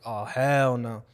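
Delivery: a slowed, indignant hell no; outraged disbelief. Retold or imitated. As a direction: stretch it out in outrage. Hearing the girl was assaulted.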